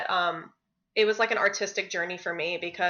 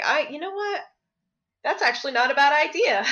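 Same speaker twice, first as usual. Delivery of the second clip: excited realization; 7 semitones higher, 3 dB louder, faster than usual. Retold or imitated. Retold own sudden idea.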